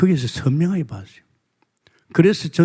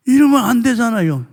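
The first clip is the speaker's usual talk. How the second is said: 이러면 안 되잖아요 repeated higher and louder with 이러면 punched; emphatic outcry; 8 semitones higher, 4 dB louder than usual. Shown as a demonstration. Preacher repeats the line to the congregation as a loud higher outcry. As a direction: cry out 이러면 as a protest.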